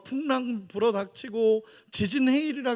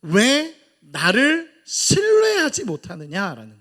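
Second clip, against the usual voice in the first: louder, slow reproach in Jesus' voice; Jesus rebuking; 6 dB louder, slower than usual. Acted. Jesus asking his frightened disciples, slow louder reproach. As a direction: ask it slowly as a grieved rebuke. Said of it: "예수님이 보는 초점은 뭐냐면".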